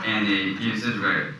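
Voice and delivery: ordinary delivery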